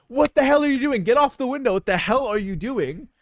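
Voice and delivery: put-on high, loud yell at a kid on the glass; angry employee. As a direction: bark it like a fed-up shop worker. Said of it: "an employee is like".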